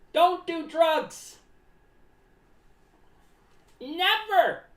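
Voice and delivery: very slow, each word spaced out; slow warning. Acted. Clown warning viewers, very slow and deliberate. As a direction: spell it out to the kids.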